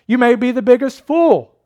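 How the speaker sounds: lightly acted preacher, pitched high; lay preacher. Unschooled preacher urging the congregation to look, lightly acted and high. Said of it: "And so the preacher began thus".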